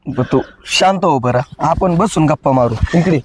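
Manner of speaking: a lover calming his tearful bride; soothing. Acted.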